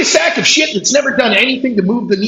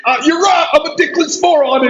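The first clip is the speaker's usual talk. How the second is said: mock shout; 5 semitones higher than usual. Mocking the opponent's logic.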